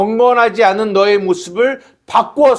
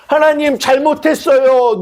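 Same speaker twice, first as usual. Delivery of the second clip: 흉내 낸 울먹이는 기도; 6 semitones higher than usual. Retold or imitated. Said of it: "눈물을 흘리고".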